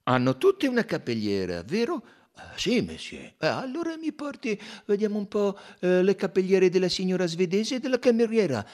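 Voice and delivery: amused Belgian sleuth pointing out the clue; Poirot's voice. A narrator's reading.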